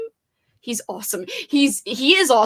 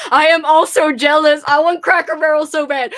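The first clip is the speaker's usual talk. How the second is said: whiny craving; 3 semitones higher, 9 dB louder than usual. Real, not acted. Jealous craving for food.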